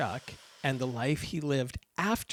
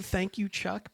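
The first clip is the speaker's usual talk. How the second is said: mocking; 5 semitones higher, slower than usual. Mocking the cheery poster.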